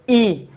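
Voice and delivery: long, level ई for students to copy; demo vokal. Shown as a demonstration. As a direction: hold ई as a front 'ee' vowel. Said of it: "बोलो".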